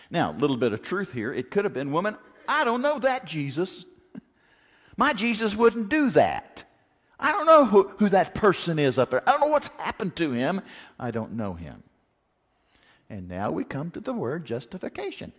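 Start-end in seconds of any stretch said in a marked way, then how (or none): 1.9-11.8 rising, louder, frantic denial as Peter; panicked denial. Acted. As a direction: insist you never knew him, voice climbing.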